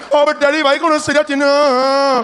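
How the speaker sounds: put-on child voice. Child answering father.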